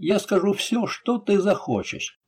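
high-pitched, cowed submission; begging. A narrator's reading. Thug on his knees before the captain, begging. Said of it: "взмолился тот, падая на колени".

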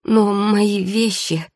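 медленно, выше, растерянно; растерянно протянуть, повысив голос; растерянность. A narrator's reading. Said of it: "Маргарита откровенно растерялась". (растерянно)

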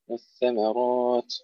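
slow والثمرات with a light م and a thick ر; thin mim, heavy ra. Shown as a demonstration. Teacher slowly modelling والثمرات for the class. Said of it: "الميم مرققة والراء مفخمة".

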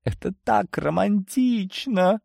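high, slow gushing delight; exclaiming. Acted. Svetlana hearing a love confession, gushing high exclamation. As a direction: gush over the romance, lifted high. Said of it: "воскликнула Светлана".

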